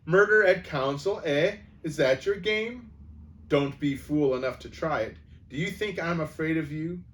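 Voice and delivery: mock the king's sword, defiant; defiant sneer. Dwarf defiance.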